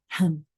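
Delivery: brief chuckle at own slip; short, stifled laugh; small laugh. Real, not acted. Narrator tripping over the word delta, small laugh.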